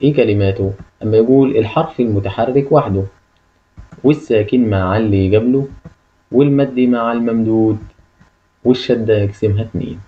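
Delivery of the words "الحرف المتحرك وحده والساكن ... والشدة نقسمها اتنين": measured recitation, pause after each line; rhyme recitation. Shown as a demonstration. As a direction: recite the rule line by line for memorising. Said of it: "احفظ معايا النشيد ده".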